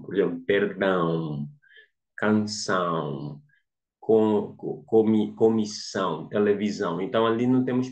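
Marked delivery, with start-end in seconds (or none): 0.4-3.4 perdão e canção com o ÃO final bem nasal e alongado; nasalação. Shown as a demonstration. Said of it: "ler na nasalação". (leitura nasalada de "perdão" e "canção")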